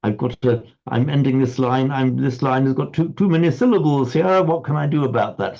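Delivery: mild mock alarm; voicing the poet's sudden panic; worried poet. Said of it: "and then gone".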